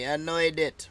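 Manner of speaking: Anoidit repeated as one smooth name; announced pronunciation. Shown as a demonstration. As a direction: say "Anoidit" without halting. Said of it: "is how they pronounce it".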